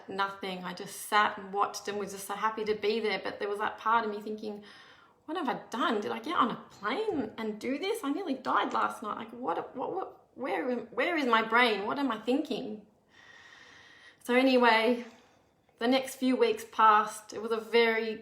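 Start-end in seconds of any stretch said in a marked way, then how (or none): 5.2-12.8 rising, racing self-questioning; replaying a moment of alarmed disbelief; panicked inner voice. Mother questioning herself after flying, alarmed inner voice.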